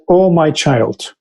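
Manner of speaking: slow, gentle and endearing; empathic, endearing. Retold or imitated. Prophet calming the caught hungry boy, slow and endearing. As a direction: soothe the frightened boy, slowly. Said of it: "in a very empathic, endearing way".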